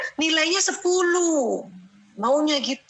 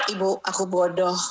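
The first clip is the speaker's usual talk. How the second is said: put-on sad child; 5 semitones lower than usual. Stressed child says he's stupid.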